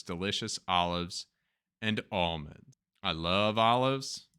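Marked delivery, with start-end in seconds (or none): 3.0-4.3 slow, overly earnest declaration; mock sincere. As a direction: fake enthusiasm for olives. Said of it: "That's not true".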